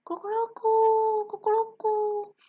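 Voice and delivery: high, loud cock-a-doodle crow; rooster crowing. Acted. Rooster scaring off the guards, crowing high. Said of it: "the rooster makes the sound".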